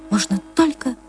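ordinary delivery

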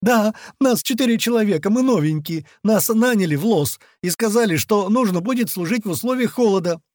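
high, hurried confession, words tumbling out; machine-gun gabble. A narrator's reading. Captive explaining himself to interrogators, machine-gun gabble. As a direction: pour it all out in a high panicky stream. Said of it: "проговорил со скоростью пулемёта".

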